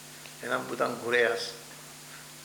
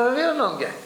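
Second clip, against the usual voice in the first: retold eager answer; 9 semitones higher, 6 dB louder than usual. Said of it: "Και τους είπα".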